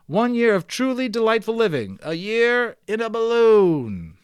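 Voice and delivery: grand professor. Acted. Professor proudly telling crowd his balloon plans. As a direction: announce it like a showman.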